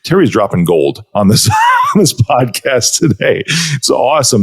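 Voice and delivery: usual speaking voice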